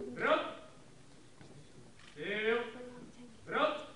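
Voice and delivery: drill sergeant. Real, not acted. Drill commands.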